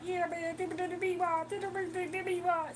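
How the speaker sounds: sing-song the Meatwad chant; Meatwad impression. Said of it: "Meatwad be like".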